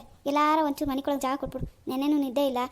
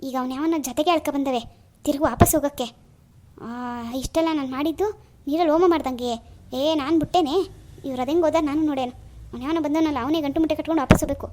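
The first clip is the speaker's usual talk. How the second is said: loud, fed-up scolding; angry rant; 4 dB louder than usual. Acted. Fuming about the son's ruined trip, in a loud angry rant. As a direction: vent your anger to the room.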